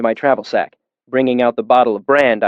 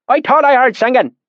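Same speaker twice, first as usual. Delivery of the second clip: put-on deep valley accent; 12 semitones higher, 3 dB louder than usual. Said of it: "his accent so thick and oily".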